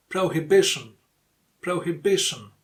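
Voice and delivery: "Prohibition" stressed on the third syllable, BI. Shown as a demonstration. Teacher models "Prohibition" twice for learners, stress on BI. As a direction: make BI stand out in "Prohibition". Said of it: "the stressed syllable is B".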